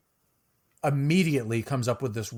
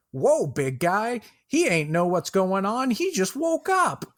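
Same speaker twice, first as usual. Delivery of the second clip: high-pitched half-elf voice; half-elf calming the giant; 8 semitones higher, 3 dB louder than usual. Acted. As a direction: urgently talk the big guy down, pitched up high. Half-elf calms down the Goliath.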